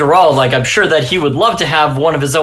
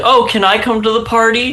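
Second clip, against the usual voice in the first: high-pitched, innocent-sounding tone; 8 semitones higher than usual. Imagining what the character Mister Toad will ask: imagined Mister Toad voice. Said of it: "Mister Toad is gonna be like".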